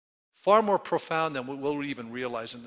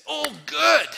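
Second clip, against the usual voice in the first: much higher, much louder delighted shout; joyful exclaim; 12 semitones higher, 9 dB louder than usual. Retold or imitated. Pastor voicing delight at problems, high joyful shout. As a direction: cry it out with glee. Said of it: "another idea here is to say".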